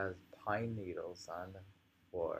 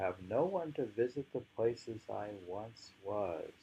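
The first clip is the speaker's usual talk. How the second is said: unhurried poetry reading with long pauses; poem reading. Acted.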